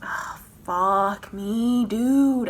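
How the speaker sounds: overwhelmed anguish; overwhelmed groan. Real, not acted. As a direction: let the pain out. Overwhelmed by pain.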